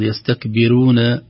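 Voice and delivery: يستكبرون with a thin ra; wrong, thin ra. Shown as a demonstration. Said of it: "بتقيق الراء".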